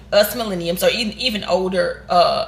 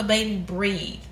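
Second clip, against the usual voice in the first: calm soothing; 5 dB quieter, slower than usual. Retold or imitated. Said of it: "from a calm voice".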